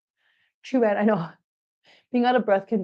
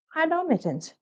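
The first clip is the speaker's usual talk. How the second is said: pet voice; 7 semitones higher, 5 dB quieter than usual. Real, not acted. Greeting cat in pet voice.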